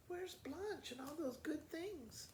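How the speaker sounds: hushed whisper, slowed down. Acted. Mama wondering aloud where Blanche went, whispered. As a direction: breathe the question out in a hush.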